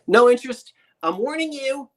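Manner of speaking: high, loud mock robot voice. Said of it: "I sound like the robot from, uh, Lost in Space".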